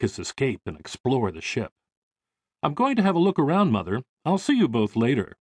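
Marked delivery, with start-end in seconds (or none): 2.6-5.4 higher, quick start, breezy announcement; lightly voiced eager son. Son escaping the unpacking to explore, lightly eager. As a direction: toss it off as a son slipping away.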